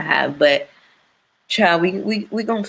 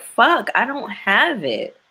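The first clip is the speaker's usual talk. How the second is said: exasperated; 6 semitones higher than usual. Retold or imitated. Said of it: "I'm like".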